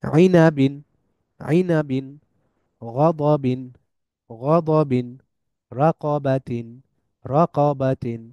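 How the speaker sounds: each word said in Arabic tajweed style, ending on a clear "in"; tajweed teacher modelling words; Arabic word drill. Shown as a demonstration. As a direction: recite each example so students can repeat it. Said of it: "যেমন".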